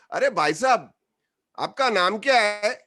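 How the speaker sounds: imitated passenger's loud, hurried aside; confidential ask, overdone. Fan covers the phone to ask the actor his name, mock-confidential. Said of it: "asks me in ear".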